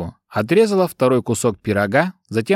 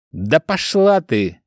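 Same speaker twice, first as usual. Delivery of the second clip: furious yell; 5 semitones higher, slower than usual. Acted. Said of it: "заорал разъярённый Сильвер".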